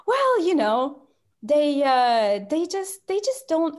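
high, halting mock justification; drawn-out, stop-start hedging; awkward hedging. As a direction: imitate someone fumbling for an explanation. Lady retold, awkwardly justifying herself.

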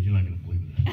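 quoting the agent with a laugh. Retold or imitated. Agent on the phone, teasing him, laughing. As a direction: chuckle through it. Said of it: "She goes".

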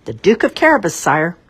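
high, loud shout of country folk; shouting crowd. A narrator's reading. Country folk shouting to the king, high and loud. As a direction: shout the answer together. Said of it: "the country folk shouted".

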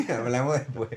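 laughing through the repeat of the line. Real, not acted. Friend repeating his own brush-off line, laughing. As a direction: say it again while cracking up.

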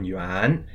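Yuan rising upward; Yuan in second tone. Shown as a demonstration. Host teaching New Year's Day: Yuan rising. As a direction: lift Yuan up. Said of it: "Y U A N in the second tone".

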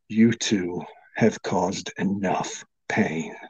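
slow, low, menacing wizard voice; grim wizard threat. Acted. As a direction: growl it slowly, deadly calm.

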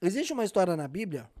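talking with mouth full; words round a mouthful of food; messy loud eating. Real, not acted. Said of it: "eu tô falando de boca cheia". (falando de boca cheia)

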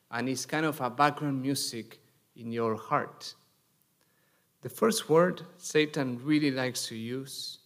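normal talking voice

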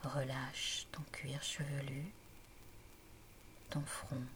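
calm, measured relaxation voice with long pauses; guided meditation. A narrator's reading. Mamie Tilda guides Aimée to relax and breathe, calm guided meditation. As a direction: guide the listener gently into stillness, phrase by phrase.

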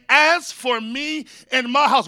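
slow, firm declaration; declaring out loud. Shown as a demonstration. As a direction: proclaim it over your house. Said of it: "Why is Daddy talking so loud?".

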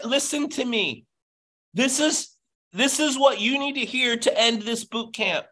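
urgent, pressing plea to the team; passionate yelling. Real, not acted. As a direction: demand they listen. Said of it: "I know I'm yelling".

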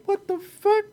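high, stunned what the; mock outrage, voice jumping up; shocked disbelief. Retelling own shocked reaction.

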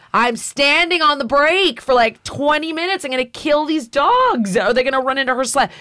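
high-pitched, mildly frantic retold plea; alarmed protest. Rider warns the guide about the dogs, high mock alarm.

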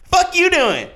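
high, loud mocking bark out the window; a rapper's skit voice. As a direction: yell down at the guy, annoyed. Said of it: "the rapper pops his head out".

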